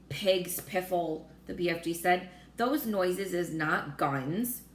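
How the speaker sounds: slow, lightly voiced giant, scoffing; a hint of a giant brushing off worry, slowly; slow gentle giant correcting; BFG. BFG contradicts army man.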